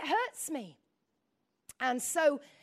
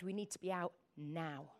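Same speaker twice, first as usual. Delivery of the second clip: low, soft retold order; hushed warning; 9 semitones lower, 10 dB quieter than usual. Husband tells wife to clear the building, hushed warning. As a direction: quote him low and under your voice.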